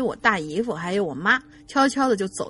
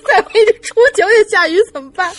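laughing, faster and louder; real laughter, higher and louder; 9 semitones higher, 12 dB louder, faster than usual. Real, not acted. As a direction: crack up while reading it out. Laughing while reading a joke.

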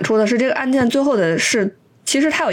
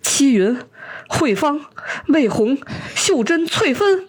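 calling out names; 5 semitones higher, slower than usual. Retold or imitated. Old Liu calls his lovers' names from the rooftop, rising to a laughing cry. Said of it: "他就在那喊说".

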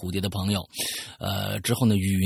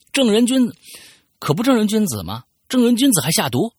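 higher, louder sarcastic needling; mocking jab; 13 semitones higher, 7 dB louder than usual. Girl mocks the self-proclaimed gentleman, sarcastic and loud. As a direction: taunt him with his own words. Friend mockingly accuses him.

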